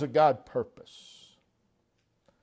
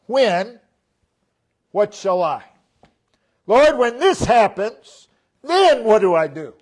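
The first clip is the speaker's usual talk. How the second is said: anxious questioning; 4 semitones higher, 7 dB louder than usual. Retold or imitated. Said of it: "Moses asks".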